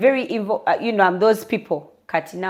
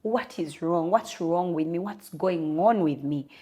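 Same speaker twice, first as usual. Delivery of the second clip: hushed, mild mock plea, softer; retold tearful prayer; 2 semitones lower, 7 dB quieter than usual. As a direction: quietly replay a desperate prayer, understated. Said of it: "So I remember crying and say".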